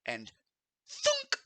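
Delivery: measured scene-setting with vocal sound effects; game master narration. Acted. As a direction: narrate the arrow's flight in pieces, pausing for suspense, acting out twing and thunk. Game master narrates the arrow attack.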